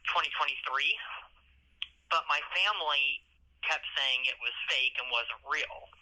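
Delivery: muffled jail phone line; on a prison phone. Real, not acted. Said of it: "legal advice over the phone".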